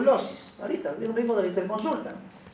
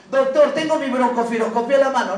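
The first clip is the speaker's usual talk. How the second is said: higher, louder eager patient voice; imagined patient; 4 semitones higher, 4 dB louder, faster than usual. Pretend. Teacher voicing a patient proudly presenting a test, eager and raised. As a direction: play the patient showing off his test.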